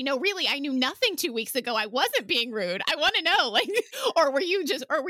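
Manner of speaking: pleading. Pretend. Playing the pleading speaker.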